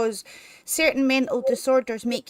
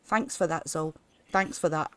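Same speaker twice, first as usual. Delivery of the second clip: imitating Pew's accent; 7 semitones lower than usual. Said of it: "I always have to do his accent".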